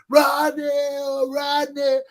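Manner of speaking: high, loud repeated call for Rodney; yelling a name. Retold or imitated. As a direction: call him urgently from inside. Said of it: "heard everybody in the house yelling".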